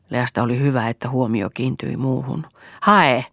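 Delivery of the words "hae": louder, insistent order; narrated brusque command. A narrator's reading. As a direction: repeat the command with force. Order to fetch repeated.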